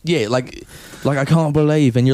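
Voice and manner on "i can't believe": lightly put-on English accent; British accent. Comic sketching a Cockney complainer, mild British accent. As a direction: try out a bit of British accent. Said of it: "A Cockney accent would be ideal".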